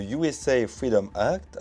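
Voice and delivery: slow, self-mocking English accent. Shown as a demonstration. Youtuber naming a US law for viewers, in a slow English accent. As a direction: say it slowly in your best English accent. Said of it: "avec mon bel accent anglais".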